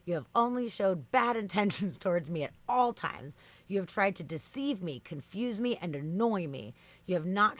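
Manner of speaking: emphatic bot scolding, key words punched; mock-indignant accusation. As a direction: act out a wounded, accusing chatbot. Acts out chatbot accusing user.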